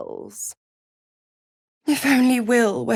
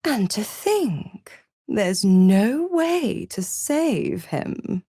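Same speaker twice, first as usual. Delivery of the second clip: very slow, at usual pitch; slow, weighted lament; slower than usual. Acted. Game character tells of someone past saving, slow lament. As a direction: draw out each word with weight.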